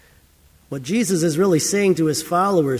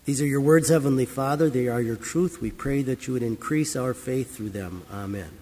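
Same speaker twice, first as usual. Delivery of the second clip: prayer; 2 semitones lower than usual. Acted. Closing prayer after the reading.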